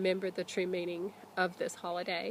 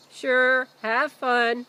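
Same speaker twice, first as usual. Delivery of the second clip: loud, easygoing call from another room; 4 semitones higher, 9 dB louder, much slower than usual. Acted. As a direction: call back from the kitchen. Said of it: "their dad called from the kitchen".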